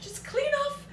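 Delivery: talking through giggles; laughing. Real, not acted. Like Grandma June reusing foil, laughing. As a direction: laugh at yourself while explaining. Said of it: "turning into my Grandma June".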